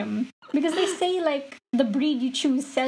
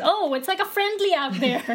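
mock-snarky quote, higher and laughing; 6 semitones higher than usual. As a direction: throw shade at the team, half-laughing.

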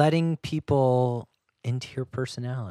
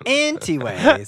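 drawn-out anyways; 11 semitones higher, 6 dB louder, slower than usual. Pretend. Drawn-out mock dismissal.

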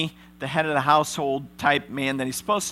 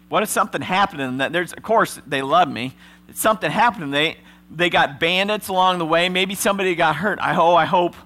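fast, rising worried words; anxious rush; 4 semitones higher, 5 dB louder than usual. Acted. Simeon in prison, fearing for his brothers, fast and anxious. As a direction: talk yourself into panic.

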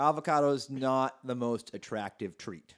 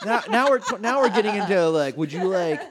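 excited; 8 semitones higher, 10 dB louder than usual. Real, not acted. Excited mock-outrage rant building.

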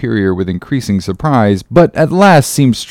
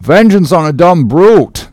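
raised, protesting cry; cried out; 4 semitones higher, 3 dB louder than usual. Acted. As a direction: protest to the captain, higher. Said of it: "cried Starbuck".

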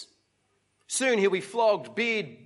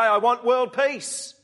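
pageant speech; 4 semitones higher, 4 dB louder, slower than usual. Acted. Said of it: "I give my speech".

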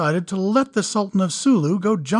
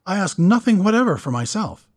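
serious; 9 semitones higher, 5 dB louder than usual. A narrator's reading. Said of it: "suddenly becoming serious".

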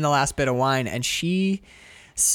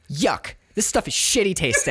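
catty. Retold or imitated. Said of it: "she says it, like, so catty".

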